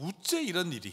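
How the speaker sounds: astonished, in Gyeongsang regional accent. Imagining the apostle Paul's reaction to being begged to stay, a speaker uses Gyeongsang dialect. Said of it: "경상도 말로".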